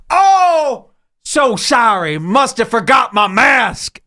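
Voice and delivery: mock apology. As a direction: ham up a fake-sorry customer. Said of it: "They did this whole act".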